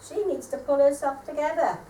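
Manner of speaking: a touch of the aunt's lecturing tone; mock Eunice. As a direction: throw her sister-in-law's scolding back, mockingly. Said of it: "Next she'll be saying".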